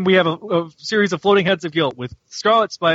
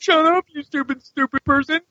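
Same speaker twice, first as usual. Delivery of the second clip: higher, hammed-up insult; mock angry snap; 11 semitones higher than usual. Host voicing a villain yelling at his clone, mock angry. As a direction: spit it out in a higher mock rage.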